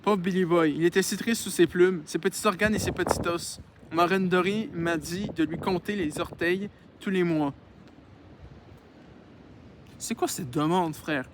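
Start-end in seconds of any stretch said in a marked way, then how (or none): 0.0-7.5 measured read-aloud voice; story narration. Acted. Reads a novel aloud.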